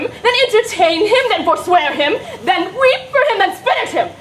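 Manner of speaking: fickle lover mockery. Mimicking a fickle youth.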